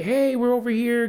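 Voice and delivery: high, mock yell to someone; calling out. Calling to aunt as groups split up, mock yell. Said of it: "I yelled out to my aunt".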